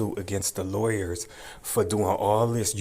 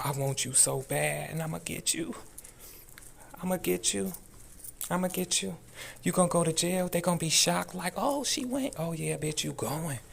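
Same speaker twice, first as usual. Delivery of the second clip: high mocking taunt, getting softer; taunting sing-song; 8 semitones higher, 4 dB quieter than usual. Real, not acted. Taunting the judge directly.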